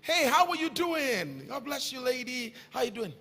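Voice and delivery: preacher acting a friendly hello to a lady, soft; friendly greeting demo. Shown as a demonstration. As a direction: greet a stranger warmly then drop away. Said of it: "you are too self-conscious".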